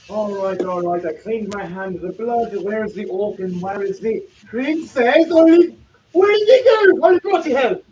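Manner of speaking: put-on voice building to a high, loud cry; alarmed adventurer. Scattermace searches for the orc and princess, mounting alarm. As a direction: start controlled, then erupt in high-pitched alarm. Scattermace looks for his vanished companions.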